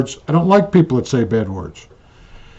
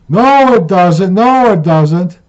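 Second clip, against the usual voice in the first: stubborn insisting; 5 semitones higher, 3 dB louder, slower than usual. Retold or imitated. Wife insisting in argument.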